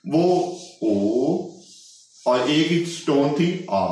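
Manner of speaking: ओ and आ drawn out very slowly with the mouth wide open; slow vowel demo of ओ and आ. Shown as a demonstration. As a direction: stretch ओ, then open wide on आ. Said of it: "ए के ऊपर ज्यादा mouth open".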